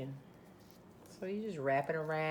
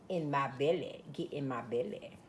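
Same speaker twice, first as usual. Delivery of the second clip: talking to the food; 4 semitones lower than usual. Acted. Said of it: "You're supposed to talk to your food".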